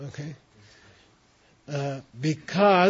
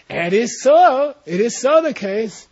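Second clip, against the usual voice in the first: loud, high, insistent claim; lightly voiced debater pressing his point; mock debater asserting; 6 semitones higher, 5 dB louder, slower than usual. Teacher voicing the debater sure of his claim. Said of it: "He's, like, saying".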